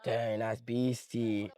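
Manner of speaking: drawn-out, impressed reaction; mock amazement. Admirer seeing a souped-up car, slow impressed drawl. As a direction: stretch it out slowly in mild awe. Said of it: "a crazy souped out car, you're like".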